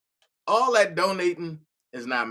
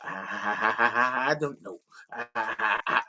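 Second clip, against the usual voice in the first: imitating stammer; 9 semitones lower, slower than usual. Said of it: "Angie said".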